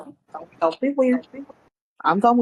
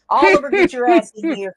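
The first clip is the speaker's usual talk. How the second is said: in-character call to a companion; 5 semitones higher, 4 dB louder than usual. Acted. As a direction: summon a friend over from a little way off. Calling another character over.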